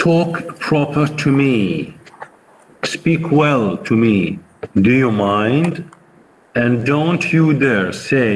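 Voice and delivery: lightly voiced Mother Courage scolding, slowed; a hint of Mother Courage. Teacher reading Mother Courage to the sergeant, mildly indignant. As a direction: tell him off like an offended mother. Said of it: "Mother Courage says".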